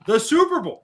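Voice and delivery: excited emphasis. Real, not acted. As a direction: pitch jumps high on Super Bowl. Emphatic repeat of Super Bowl.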